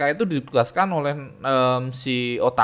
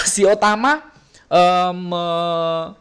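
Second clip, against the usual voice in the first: coughing; 5 semitones higher, 4 dB louder, slower than usual. Real, not acted. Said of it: "sambil batuk-batuk gini".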